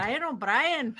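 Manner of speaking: mock Irish greeting; Irish accent. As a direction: put on a singsong Irish brogue. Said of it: "doing all the different accents".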